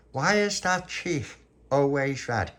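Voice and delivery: put-on high, drawn-out baby talk; cooing at baby. Little pappy teasing baby Lucia, cooing at baby. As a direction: coo it slowly and high.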